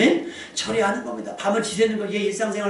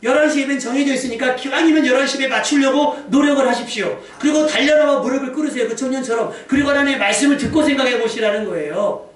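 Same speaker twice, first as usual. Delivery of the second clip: raised, urgent pulpit voice; forceful preaching; 6 semitones higher, 6 dB louder than usual. Real, not acted. Preacher urging worshippers to seize the chance, forceful preaching. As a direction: press the exhortation on the congregation.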